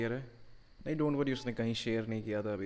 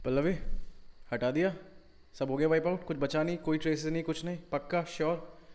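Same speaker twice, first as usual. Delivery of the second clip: anxious urgency; 5 semitones higher, 4 dB louder than usual. Acted. Anxious boss checking evidence wiped.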